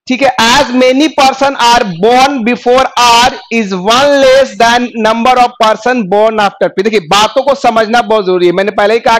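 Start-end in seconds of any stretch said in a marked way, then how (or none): 0.4-6.8 slow, deliberate reading of the English clue. Shown as a demonstration. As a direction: read it word by word for the class. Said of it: "reading clue slowly aloud".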